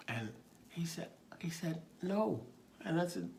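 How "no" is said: put-on little boy. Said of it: "his little face".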